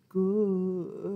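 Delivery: "Goodbye." drawn out slowly. Shown as a demonstration. Librarian says the goodbye as slow as she can. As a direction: stretch "Goodbye." as slowly as possible. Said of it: "say goodbye as slow as we can".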